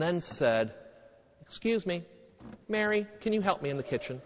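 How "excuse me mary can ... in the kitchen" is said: calm request. Retold or imitated. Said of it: "cooled down a little bit".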